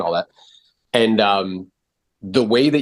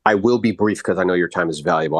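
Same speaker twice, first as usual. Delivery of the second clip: confident script demo; 3 semitones lower than usual. Shown as a demonstration. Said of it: "I never ask for permission".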